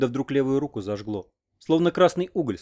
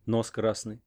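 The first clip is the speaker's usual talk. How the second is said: ordinary delivery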